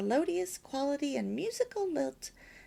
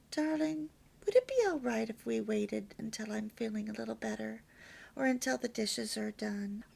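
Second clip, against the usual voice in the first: gentle. Shown as a demonstration. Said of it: "You can see the difference".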